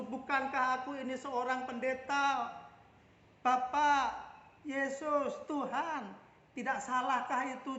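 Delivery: outraged pastor yelling his case; yelling protest. Retold or imitated. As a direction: shout your credentials at God. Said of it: "berteriak-teriak seperti itu".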